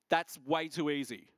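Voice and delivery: chuckling through the words; laughing. Retold or imitated. Telling the church his reply, laughing. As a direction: laugh it off as if it's too good to be true. Joking about a too-easy answer.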